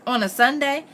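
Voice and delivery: high-pitched surprised question; exclaiming. A narrator's reading. Missus Moss reacting to Richard's job hunt, surprised exclamation. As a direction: exclaim it in disbelief. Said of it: "Missus Moss exclaimed".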